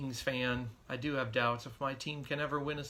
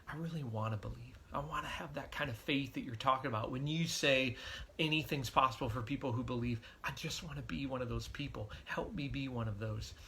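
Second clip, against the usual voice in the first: heartfelt prayer. Retold or imitated. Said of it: "that honest, heartfelt prayer".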